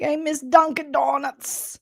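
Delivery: Boston cop. Retold or imitated. Host mocking Kenny the Boston cop with a slow Boston accent. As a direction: drag out the homesick Boston line. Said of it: "He's like".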